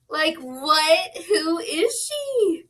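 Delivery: overwhelmed joy cracking into tears; amazed, near tears. Real, not acted. Vlogger amazed at her new body, teary and high.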